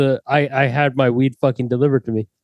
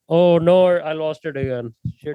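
put-on Indian accent; 3 semitones higher than usual. Prankster losing his nirvana, in a put-on Indian accent. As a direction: lament it in a fake Indian accent. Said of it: "and you go back, back to the accent".

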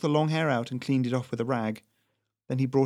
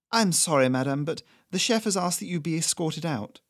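lightly raised, formal and firm; polite waiter; 5 semitones higher than usual. Acted. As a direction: show her out courteously. Server escorts Doris out.

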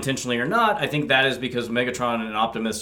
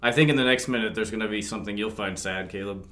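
sexy voice; 3 semitones lower, 7 dB quieter than usual. Real, not acted. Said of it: "like, a sexy, mm".

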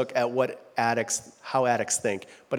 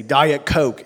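lightly voiced rock star demand, louder; 6 dB louder than usual. Comedian's bit about a star ordering drinks, lightly mocked demand. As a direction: call it out like a famous rock star. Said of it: "so famous that he can say".

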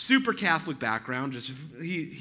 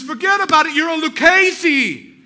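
put-on Chicago mobster accent; 11 semitones higher, 13 dB louder than usual. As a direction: burst out like a thrilled Chicago wise guy. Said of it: "he sounds like a mobster".

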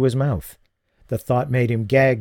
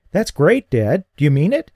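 thrilled son; 6 semitones higher, 5 dB louder than usual. Acted. Son thrilled by father's gift.

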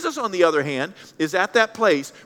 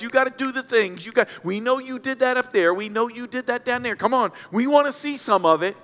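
higher, pestering crowd voice; mock demanding; 4 semitones higher than usual. Hometown crowd pesters Jesus for magic stuff, mock demanding. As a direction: badger him for a show, half-mocking.

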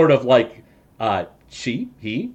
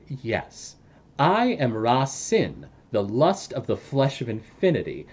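Ra Sin explaining. Acted. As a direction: savour each word of the ironic punishment, hushed. GM voices Ra Sin's monologue.

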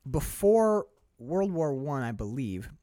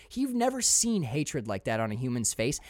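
normal talking voice

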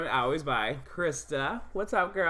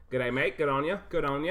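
mock Australian accent; faster than usual. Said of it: "didn't really totally do an Australian accent".

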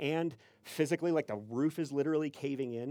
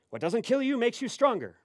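raised, emphatic proverb voice; super serious stranger; 7 semitones higher, 5 dB louder than usual. Retold or imitated. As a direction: proclaim the cliché as grave advice. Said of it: "super serious".

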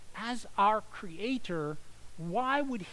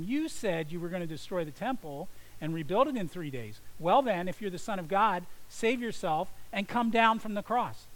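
jeering yell. Retold or imitated. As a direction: hurl the dare up at the cross, mocking. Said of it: "they yelled at him".

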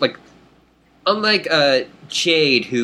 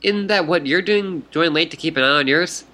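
put-on high, bubbly fish girl voice; excited fish troll; 4 semitones higher than usual. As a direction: greet her like an eager fish troll.

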